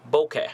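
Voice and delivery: BOKEH said BOH-keh; trying a pronunciation. Shown as a demonstration. Presenter introducing the term to viewers, trying a pronunciation. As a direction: say BOKEH with a long first O. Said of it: "I don't know how to pronounce it".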